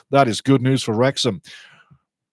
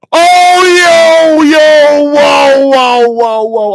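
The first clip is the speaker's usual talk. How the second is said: much higher, much louder whoa at a near goal; excited shout; 11 semitones higher, 9 dB louder, much slower than usual. Real, not acted. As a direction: yell in real excitement as the shot flies. Near goal, shot just misses.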